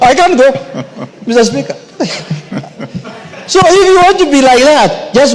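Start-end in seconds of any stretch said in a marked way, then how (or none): 2.0-3.1 laughing. Real, not acted. Laughs at own joke.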